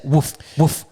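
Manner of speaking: spoken woof sound; light dog woof; mock woof. Shown as a demonstration. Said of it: "It's not a woof sound".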